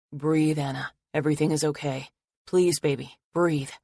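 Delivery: gentle, steady coaxing; calm her through the panic; soothing voice. Acted. Logan holding Anna through a panic attack, soothing. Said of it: "familiar, soothing voice".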